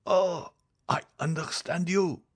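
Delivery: high, slow, suffering voice; agonized dying man. Acted. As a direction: draw it out high, as a man in agony. Dying man grasps his fate.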